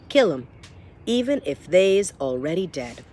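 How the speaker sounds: a hint of a coarse cook; lightly voiced gruff kitchen cook; Cook's rough voice. Epigraph read in Cook's voice.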